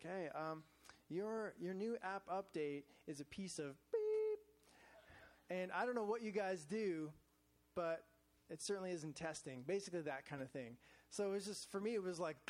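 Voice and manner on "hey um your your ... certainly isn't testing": retold snippy complaint, pointed emphasis; mildly nasty. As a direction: imitate a slightly nasty customer's complaint. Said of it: "a little nasty about our, our update".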